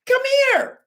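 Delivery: high, loud call to come; high mother's call. Retold or imitated. Mother calls her boy over, high and loud.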